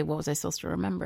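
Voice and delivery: quick demo question. Shown as a demonstration. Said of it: "So try to say".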